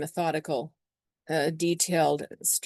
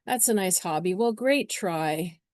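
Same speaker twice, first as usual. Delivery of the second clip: a lightly voiced patronizing parent, slowing right down; a parent patronizing a young boy, mildly condescending; 3 semitones higher than usual. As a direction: talk down to the kid like a condescending adult. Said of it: "a parent figure coming in there going".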